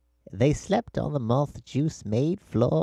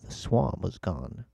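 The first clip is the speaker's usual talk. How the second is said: whisper; 4 semitones lower, 5 dB quieter than usual. A narrator's reading. Narration, whispered line.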